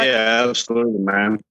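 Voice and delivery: muffled, as if underwater; sounding submerged on a bad line. Real, not acted. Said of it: "you sound like you're underwater".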